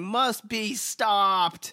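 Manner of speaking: high, slow, fist-shaking sputter; sputtering foiled villain. Retold or imitated. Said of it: "Donald Trump shaking his fist going".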